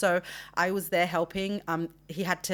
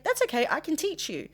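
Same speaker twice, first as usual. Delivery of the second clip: high mimicking of the vet; 9 semitones higher than usual. Vet offers to teach her.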